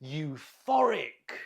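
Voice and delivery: slow, clear teacher model of "Euphoric", stress on the middle syllable -PHOR-; model pronunciation. Shown as a demonstration. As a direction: say "Euphoric" slowly, leaning on -PHOR-. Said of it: "Look at the pronunciation. The stress is on the middle syllable".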